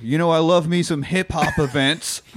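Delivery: hammed-up enthusiastic slang reply; mock hip-hop fan. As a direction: play the eager buddy, mockingly. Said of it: "anybody in the hip-hop community definitely says that".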